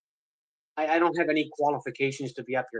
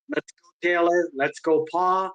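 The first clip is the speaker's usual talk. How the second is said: cheer; 3 semitones higher, 4 dB louder, slower than usual. Real, not acted. Cheering the community at the end.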